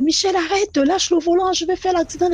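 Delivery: retold cry. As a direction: imitate her begging him to let go of the wheel. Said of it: "il crie".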